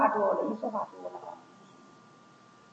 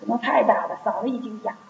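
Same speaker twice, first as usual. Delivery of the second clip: worn-out, hoarse voice that cannot get loud; 4 dB louder than usual. Real, not acted. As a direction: speak with a tired, strained throat.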